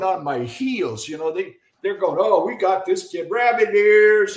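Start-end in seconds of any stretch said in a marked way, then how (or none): 2.2-4.4 retold bench jeer; dugout chatter. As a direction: imitate players needling a rookie. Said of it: "Cubbies are just chattering away".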